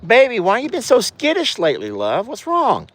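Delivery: high, swooping sweet talk to an animal; fussing pet-talk. Real, not acted. Owner asks a skittish cow what's wrong, fussing. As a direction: fuss over a nervous pet.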